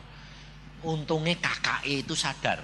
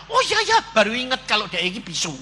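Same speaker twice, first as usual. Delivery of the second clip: high, loud exclamation, then quicker; sudden realisation; 7 semitones higher, 3 dB louder than usual. Acted. Husband remembers his wife was mute, exclaiming high and loud. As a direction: blurt it as it dawns on you.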